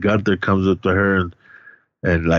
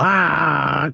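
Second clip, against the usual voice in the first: high drawn-out "ah" wail; mock crying wail; 7 semitones higher than usual. Retelling how the girls all cried, mock crying wail.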